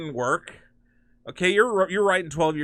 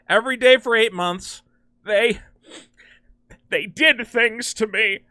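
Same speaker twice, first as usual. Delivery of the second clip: dramatic confession; 3 dB louder than usual. Acted. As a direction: play a traumatized victim's confession. Acts out Superman's confession.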